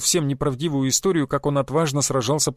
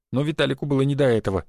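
plain reading voice

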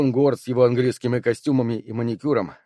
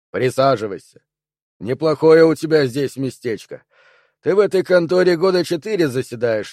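sarcastic soldier; 2 semitones higher, 4 dB louder than usual. Acted. Dew voiced, sarcastic.

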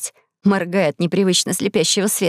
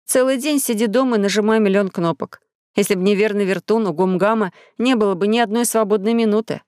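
ordinary delivery

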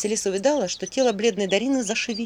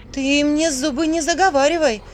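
higher, louder warning; stern warning; 7 semitones higher, 6 dB louder than usual. Acted. Vasilisa warns the devil with her staff, loud and stern. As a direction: cut him off sharply.

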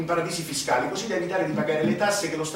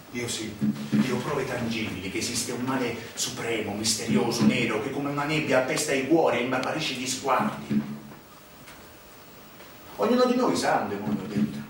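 ominous confidant; 5 semitones lower than usual. Acted. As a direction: speak like a man who has seen evil.

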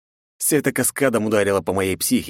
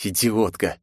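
angry snort; 4 semitones higher than usual. A narrator's reading. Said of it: "злобно фыркнул я".

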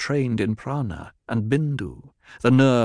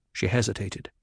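ordinary delivery, nothing marked

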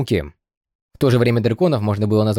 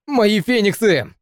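grieving cry; 9 semitones higher, much slower than usual. Acted. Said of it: "Вид горестно зарыдал".

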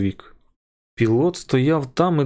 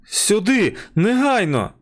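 high, sharp call for help; urgent shout; 8 semitones higher, slower than usual. A narrator's reading. Wilson shouts to the pilot and stewardess, high urgent call. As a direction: yell for them to come now. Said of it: "крикнув він".

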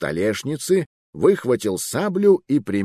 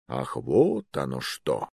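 lower, slow and put-upon; grudging realization; 9 semitones lower, 4 dB quieter, slower than usual. Acted. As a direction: sigh out the dawning answer with disappointment. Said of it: "Конторщика очень огорчило".

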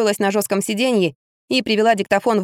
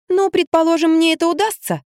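high, playing hard to get; coy reluctance; 9 semitones higher than usual. A narrator's reading. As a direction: pretend it is a struggle. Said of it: "ломалась я".

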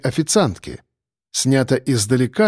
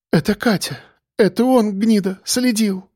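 bitter; 7 semitones higher than usual. A narrator's reading. Waitress recognises stalker.

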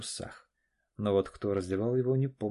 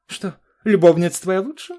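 хмыкнула; 10 semitones higher, 14 dB louder than usual. Acted. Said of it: "хмыкнула Наташа".

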